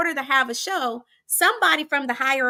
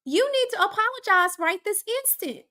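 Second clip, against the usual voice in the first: stern principal; 7 semitones higher than usual. Retold or imitated. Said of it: "And she said".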